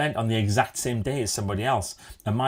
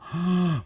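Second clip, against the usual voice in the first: mock gasp; 8 semitones higher than usual. Mock shock after revealing winner.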